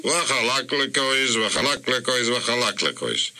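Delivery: "Wachalaklekois" rattled off three times running; rapid triple repetition. Acted. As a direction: reel off "Wachalaklekois" three times without stopping. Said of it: "heute dreimal".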